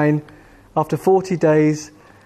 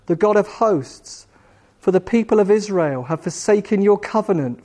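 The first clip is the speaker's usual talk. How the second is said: higher-pitched, mildly plaintive recital; broken-hearted prayer; 3 semitones higher than usual. Acted. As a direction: pray it with a touch of discouragement. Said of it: "praying from a broken heart".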